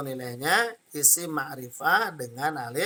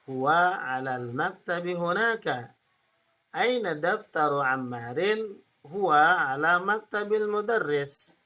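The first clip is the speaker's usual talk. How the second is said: intonated model reading; 2 semitones higher than usual. Shown as a demonstration. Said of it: "dengan intonasinya".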